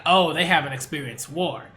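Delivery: level, loaded with meaning, the veiled-threat version; imitating the character's ominous way of saying it; ominous reading. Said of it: "But he didn't say it like that".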